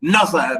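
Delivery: "neither" said as NUTHER; neither as rustic "nuther"; dialect "nuther". Shown as a demonstration. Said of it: "Look at this word".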